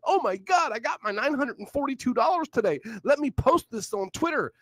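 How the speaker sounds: lightly mock the excited poster; mock excitement. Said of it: "he was so excited".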